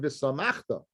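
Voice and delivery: V'SAMACHTA leaned on as the key word; stress on V'SAMACHTA. Shown as a demonstration. Teacher citing Rav Ashi's reading, stress on V'SAMACHTA. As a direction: put the weight on V'SAMACHTA. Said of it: "the stress is on the word".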